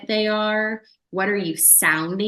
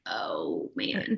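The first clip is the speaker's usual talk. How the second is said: deflated sigh; 9 dB quieter than usual. Retold or imitated. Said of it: "and I'm like".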